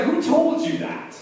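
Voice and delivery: high, breathless mom asking who told him; startled mom. Retold or imitated. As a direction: gasp it out like a shocked mother. Mom alarmed at son's question.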